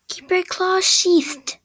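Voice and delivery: slow, loud, high-pitched angry command; angry audition read. Acted. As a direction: act angry, stretching each word high and hard.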